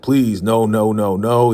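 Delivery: lightly acted pleading, no after no; begging. Clark pleading not to be sent to the trailer, mock begging. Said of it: "He's begging".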